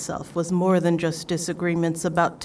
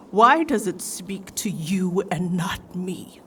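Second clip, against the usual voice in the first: slow, hushed and hurt; pained whisper; slower than usual. Acted. Ikora asks the Guardian why the Light ignores her, whispered. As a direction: breathe it out slowly, barely voiced.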